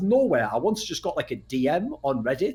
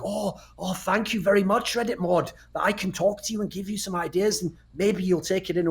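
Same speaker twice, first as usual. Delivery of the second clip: mock grovelling; 5 semitones higher than usual. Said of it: "I should sort of be like".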